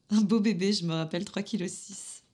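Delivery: proud recollection. Acted. Midwife recalling a baby she delivered, proud and lifted. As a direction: lift the voice with joy, then ease off.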